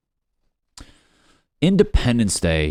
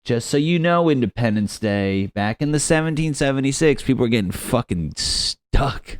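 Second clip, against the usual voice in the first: higher, louder, hammed-up scolding; mock preachy meme voice; 5 semitones higher, 4 dB louder than usual. Host mocking guilt-trip holiday memes, preachy voice. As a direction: lecture them sanctimoniously, stretching the reminder. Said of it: "you always see those memes".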